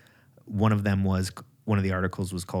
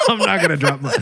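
laughing; 6 dB louder than usual. Real, not acted. Laughing while correcting himself.

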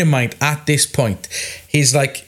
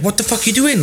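higher-pitched incredulous question; astonished, at normal volume; retold disbelief; 9 semitones higher, faster than usual. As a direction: quote a baffled colleague's protest. Retold reaction to flashing customer.

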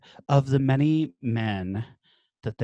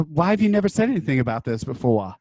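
Blanche; faster than usual. Acted. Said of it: "Blanche is like".

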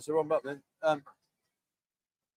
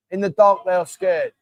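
louder and clearer, repeated for a confused listener; patient louder repeat to his partner; 6 dB louder than usual. Shown as a demonstration. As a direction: say it again louder so she gets it. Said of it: "Something being dark sa'yo".

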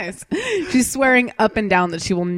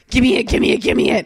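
eager demand; 3 semitones higher, 5 dB louder, faster than usual. Retold or imitated. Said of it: "she was just like".

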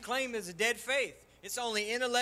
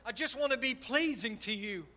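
tearful prayer. Retold or imitated. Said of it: "I remember, I'm crying".

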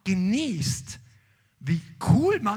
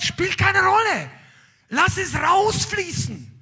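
God's words cried out much higher and louder, slowly; exultant cry; 13 semitones higher, 9 dB louder, slower than usual. Acted. Preacher voicing God to the congregation, high, loud, slow. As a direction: shout it like a release.

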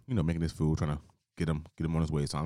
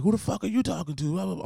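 much higher, louder indignant yell; mock angry customer; 14 semitones higher, 6 dB louder than usual. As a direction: hurl it back like an offended thug.

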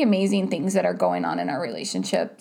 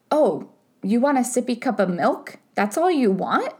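put-on higher, sing-song reassurance to a small child; soothing toddler talk; 6 semitones higher than usual. Parent calming a crying toddler with milk, high coaxing voice. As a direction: coax a crying four-year-old gently, voice lifted.

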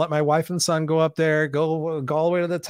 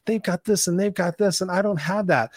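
envious whining; 5 semitones higher than usual. Retold or imitated. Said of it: "looking at everybody else going".

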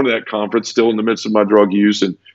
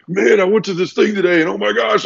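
imitating excited guy; 10 semitones higher than usual. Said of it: "going like".

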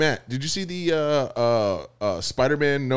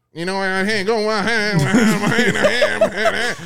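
thick Louisiana; 3 semitones higher than usual. Retold or imitated. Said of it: "that thick Louisiana".

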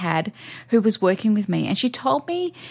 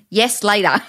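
laughing; 10 semitones higher, 4 dB louder than usual. Real, not acted. Joke, laugh heard.

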